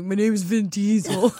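a serious, gruff movie-star voice; deadpan action-hero impression; Vin Diesel impression. A podcast host doing her Vin Diesel impression, deadpan. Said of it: "that's her Vin Diesel impression".

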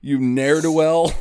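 put-on slow, loud old-timey insult; hammy Victorian lady scolding; hammy stage actor. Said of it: "she just uses a bunch of old-timey slang insults".

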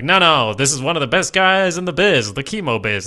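lightly voiced codger, boasting; old prospector. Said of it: "He's laying it on thick".

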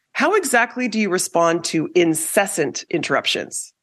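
ordinary talk

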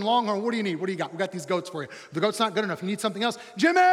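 a hint of a pushy goat salesman, laughing at first. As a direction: sell the goats like a fast-talking dealer. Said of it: "these guys say something like this".

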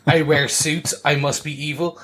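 lightly put-on British villain accent; hammed-up British villain; mock British villain. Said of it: "your typical British villain".

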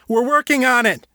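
high, strained shout; shouting back. A narrator's reading. Harold shouting back to Liam mid-fall, high and strained. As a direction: yell back over the rushing wind. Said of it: "Harold shouted back".

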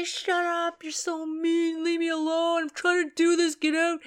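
the goth son yelling leave me alone; teen snapping back. Retold or imitated. Teen son shouting at his mother to get out, loud and whiny. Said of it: "And he'd say".

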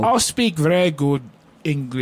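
mock British that lands Scottish; botched Scottish accent. Co-host defending his accent to the host, in wobbly Scottish. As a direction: insist in a badly faked Scottish accent. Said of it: "that's a Scottish accent".

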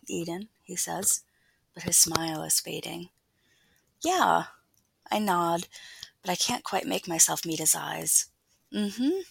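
intimate, hushed first-person reading; story narration. A narrator's reading. Author reading a scene from her novel aloud, story narration. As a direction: read it close and confiding, sliding into a near-whisper.

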